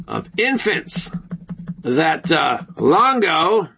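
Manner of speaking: lightly done newsreader read; a hint of a TV news broadcast; broadcaster voice. Shown as a demonstration. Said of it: "in my broadcaster's voice".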